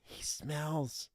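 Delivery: hushed, disgusted aside; very soft whispered complaint. Acted. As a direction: whisper it behind your hand. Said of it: "whispers to Brody".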